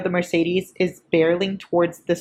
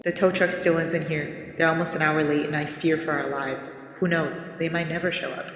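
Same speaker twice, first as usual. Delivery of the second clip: soft, lower dramatic voice; hushed vlog confession; 4 semitones lower, 6 dB quieter than usual. Shown as a demonstration. Stranded girlfriend recording a vlog, hushed and grave. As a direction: speak softly and low, as if for a last video. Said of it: "I pictured it like this. Ready?".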